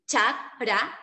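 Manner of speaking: CHAKRA slowly split as CHAK ... RA; slow CHAK, then RA; syllabified pronunciation. Shown as a demonstration. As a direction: pause after the K in CHAKRA. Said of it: "pues, que chakra".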